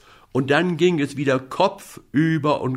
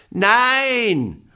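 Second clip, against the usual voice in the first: put-on a high, loud child's refusal; shout; 10 semitones higher, 4 dB louder than usual. Little boy refusing the moon, loud high shout. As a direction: bark out the no, defiant. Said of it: "schrie Häwelmann".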